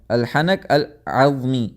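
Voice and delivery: "الحنق العظمی" drawn out slowly, each sound distinct; slow careful pronunciation. Shown as a demonstration. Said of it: "الحنق العظمی آتا ہے".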